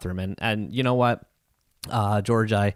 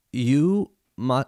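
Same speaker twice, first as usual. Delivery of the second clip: slow, careful speech; 2 semitones higher than usual. Retold or imitated. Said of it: "very, very slowly".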